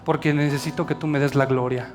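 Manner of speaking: soft, tender reply; God's hushed, loving reply to Paul; gentle divine answer. Retold or imitated.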